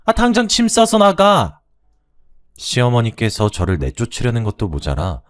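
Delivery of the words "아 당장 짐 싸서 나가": scolding mother-in-law. Acted. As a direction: snap at the widowed daughter-in-law to get out. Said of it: "쏘아 붙이셨죠".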